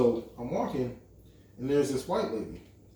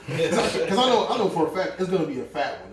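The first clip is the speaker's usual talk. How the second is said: laughing while talking; 3 semitones higher, 4 dB louder than usual. Real, not acted. Laughing about the coming ticket.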